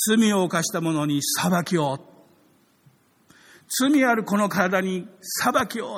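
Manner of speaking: slow, solemn proclamation; the blood crying to God for judgment, slow and solemn. Acted. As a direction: call it out slowly like an accusation. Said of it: "って血は叫んでるんです".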